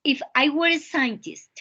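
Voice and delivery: "scientist" said carefully as SAI-en-tist; model pronunciation. Shown as a demonstration. Teacher corrects Jesly's pronunciation, careful and clear. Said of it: "Jesly, repeat".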